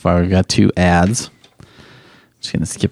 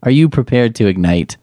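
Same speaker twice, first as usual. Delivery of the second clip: mock host hype. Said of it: "This is really horrible".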